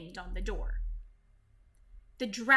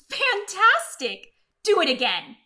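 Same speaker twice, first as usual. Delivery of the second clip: shout; 7 semitones higher, 10 dB louder than usual. Acted. Elizabeth shouts to urge the tired dragon on. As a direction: cheer him on to do it again. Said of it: "Elizabeth shouted".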